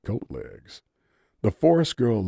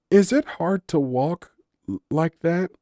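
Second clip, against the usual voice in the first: nervous question; 11 semitones higher, 5 dB louder than usual. A narrator's reading. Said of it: "she asked nervously".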